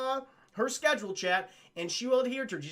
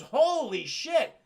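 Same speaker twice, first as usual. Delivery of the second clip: crowd gasp; 5 semitones higher, 5 dB louder, much slower than usual. Retold or imitated. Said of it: "Everyone goes".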